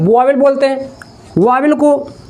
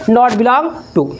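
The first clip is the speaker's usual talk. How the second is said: slow spelled-out answer; much slower than usual. Shown as a demonstration. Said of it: "इसे क्या बोलेंगे?".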